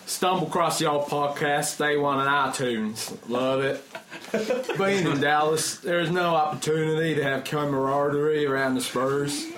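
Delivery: attempted American accent. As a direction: read the email as a mock Texan. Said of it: "attempt this in an American accent".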